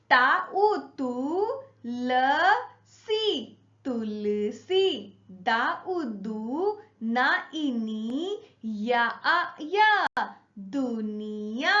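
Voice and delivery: sing-song spelling chant, each syllable called out; lilting teacher recitation, rising on each new syllable; classroom syllable drill. Shown as a demonstration. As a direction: chant the sounds for children to echo.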